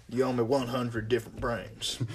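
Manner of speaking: soft mock zombie demand; lightly voiced zombie. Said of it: "He could be like".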